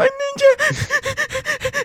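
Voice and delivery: acted-out sobbing wail, very high pitched. Retelling a child's reaction to a pretend-eaten toy: imitating a child bawling. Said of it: "starts, like, bawling".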